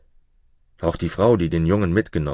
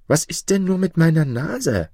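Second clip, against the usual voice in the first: much higher, affronted question; indignant dwarf; 10 semitones higher, 4 dB louder than usual. A narrator's reading. Jakob questions the shoemaker about his nose, affronted. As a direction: sound baffled and offended. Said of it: "fragte Jakob".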